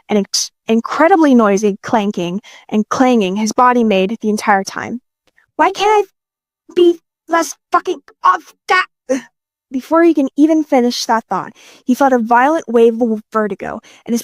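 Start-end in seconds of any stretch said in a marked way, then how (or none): 5.5-8.9 slow, high, strained complaint; exasperated. Acted. Man cursing his noisy clanking body, exasperated. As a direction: break up the words in frustration.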